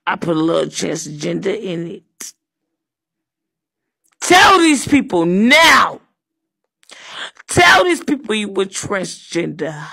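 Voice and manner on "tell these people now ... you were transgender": yell. Acted. Yelling at the worker.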